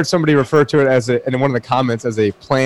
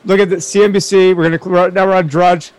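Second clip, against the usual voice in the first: higher-pitched, excited live scramble; excited urgency; 6 semitones higher than usual. Real, not acted. Cohost clicking through to the news site, excited. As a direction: urgently narrate as you check.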